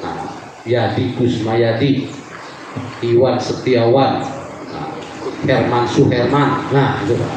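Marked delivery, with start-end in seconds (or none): 0.7-6.7 names spelled out slowly so the repeated part "yadi", "wan", "man" is heard; slow and deliberate, showing the echoing syllables; slow name demo. Shown as a demonstration. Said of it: "Pengulangan suku kata". (pelan, menonjolkan suku kata yang diulang)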